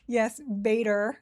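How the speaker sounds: "beta" said slowly with her Australian vowels, "bee-tah"; "beta" in an easy Australian pronunciation; her own way of saying beta. Shown as a demonstration. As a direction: say "beta" the Australian way, drawn out a little. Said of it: "That is how I say beta".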